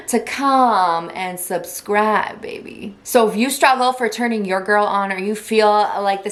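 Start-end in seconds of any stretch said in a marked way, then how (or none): 2.4-2.9 whisper. Acted. Seductive sign-off after subscribe plea.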